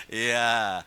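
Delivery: laughter. Real, not acted. Laughs with congregation.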